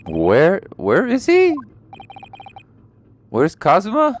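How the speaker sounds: voiced hero anxiously searching for a friend; acted alarm. Game hero alarmed about friend.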